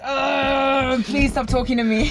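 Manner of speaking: mock-pained groan into a plea; exasperated plea. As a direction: beg them to stop, hammed-up. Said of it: "You're just like".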